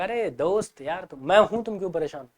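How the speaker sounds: soft, reassuring friend; soothing a worried friend with a hand on the shoulder; consoling friend. Retold or imitated. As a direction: gently cheer up a friend.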